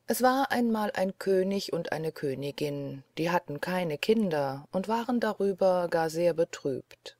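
hushed fairy-tale whisper; whispered storytelling. Acted. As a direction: breathe the opening like a secret. (geflüstertes Märchenerzählen)

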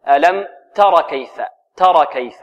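"تر" with a short vowel and no alif; raa straight into kaf. Shown as a demonstration. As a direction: join the raa of "تر" directly to "كيف". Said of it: "الراء في الكاف مباشرة". ("تر" موصولة بالكاف مباشرة دون ألف)

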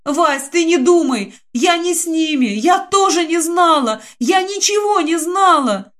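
выше, с надрывом, оправдываясь сквозь рёв; высокий плачущий голос, всё выше к концу; в слезах. Acted. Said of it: "Заревела Динка". (плача и оправдываясь)

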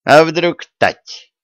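high, drawn-out mocking suspicion; wry smirk. A narrator's reading. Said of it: "усмехнулся Гордон". (протяжно, с усмешкой)

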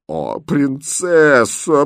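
high, very drawn-out wail; groaning. Acted. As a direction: moan it long and loud in despair. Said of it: "простонала бедная гофмистерина". (протяжный громкий стон)

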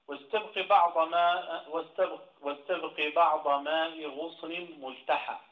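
measured classical Arabic verse reading; verse recitation. Shown as a demonstration. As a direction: recite the verse loudly and deliberately. Recites verse before glossing it.

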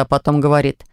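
ordinary delivery, nothing marked

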